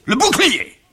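high, loud incredulous exclamation; outraged echo. Acted. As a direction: throw the word back, scandalised. Father echoes in outrage.

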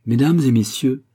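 annonce ferme et plus forte; s'adresser à la salle avec assurance; voix claire et ferme. Acted. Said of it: "d'une voix claire et ferme". (Armel annonce au public, voix claire et ferme)

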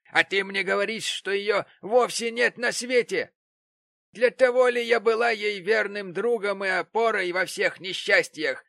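high, loud, scolding fury, slowed on the insults; furious tirade. Acted. Mrs Gamp lashing out at Betsey Prig, furious loud tirade. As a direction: rage at her as a betrayed friend.

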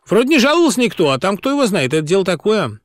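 quick high cheeky retort; blurted cheekily. A narrator's reading. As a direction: slip it in fast, mocking. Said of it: "Владик успел выпалить".

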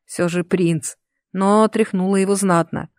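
ordinary delivery, nothing marked

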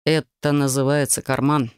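«карман» low and settled, falling. Acted. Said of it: "ответил он уже нормальным голосом".

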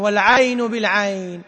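والعين بالعين recited slowly with a rounded final nun; slow recitation of والعين بالعين; variant reading. Shown as a demonstration. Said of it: "جاءت قراءة عن النبي". (تلاوة والعين بالعين بالرفع)

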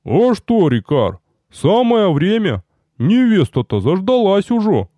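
teasing soldier. Acted. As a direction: egg him on cheerfully. Рикар подначивает господина.

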